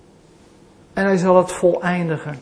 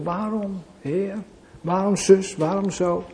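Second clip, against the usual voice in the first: civilized complaint; 6 dB quieter than usual. Retold or imitated. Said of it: "Dat doe ik dan allemaal beschaafd natuurlijk".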